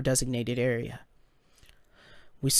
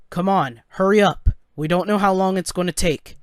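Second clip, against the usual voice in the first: mildly pressing father, pitch a bit raised; urgent urging; 4 semitones higher, 4 dB louder than usual. Acted. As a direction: hurry them along with some urgency. Father urges son to hurry.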